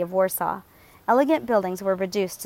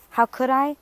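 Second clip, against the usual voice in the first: higher pitched, rising retort; indignant retort; 6 semitones higher, 3 dB louder than usual. A narrator's reading. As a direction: throw her question right back at her. Alex throws question back.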